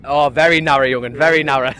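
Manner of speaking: mock Geordie, teasing his mate; Geordie accent. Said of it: "In a Geordie accent anyway".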